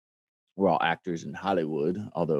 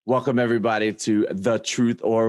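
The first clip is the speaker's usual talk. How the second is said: host intro. Acted. Show intro.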